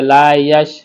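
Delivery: "লা ইয়াস" ending in a thin s; tongue-tip s. Shown as a demonstration. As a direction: put the tongue tip to the upper front teeth for the s of "ইয়াস". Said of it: "জিহ্বার আগা সামনে উপর দাঁতের সাথে লাগিয়ে". (জিহ্বার আগা দাঁতে লাগিয়ে "ইয়াস")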